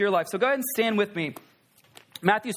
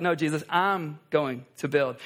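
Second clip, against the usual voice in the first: lower, slower, stubborn stress on "I'm"; mock Peter objecting; 6 semitones lower than usual. Peter correcting Jesus, pressing "I'm going to build". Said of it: "Peter's like".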